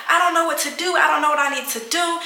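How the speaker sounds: retold panic. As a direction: mimic panicking on a call to dad. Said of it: "just, just panicking".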